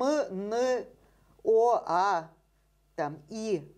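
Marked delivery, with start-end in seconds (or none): 0.0-2.3 each sound said alone, drawn out clearly; isolated speech sounds. Shown as a demonstration. Lecturer to interviewer, demonstrating separate speech sounds clearly. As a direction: spell out single sounds one by one. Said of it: "мы знаем, что есть там м".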